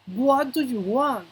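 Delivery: slow, drawn-out teacher's example; deliberate, slow demonstration with falling end; slow model pronunciation. Shown as a demonstration. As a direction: stretch each word for learners to hear. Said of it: "La pronunciación es importante".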